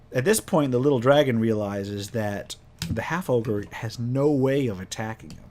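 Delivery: usual speaking voice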